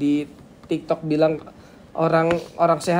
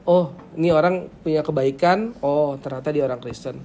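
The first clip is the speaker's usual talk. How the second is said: impressed, dawning realisation; approving recognition. Shown as a demonstration. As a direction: voice a pleasant discovery about someone. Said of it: "Sama nadanya gini". (kagum baru tahu)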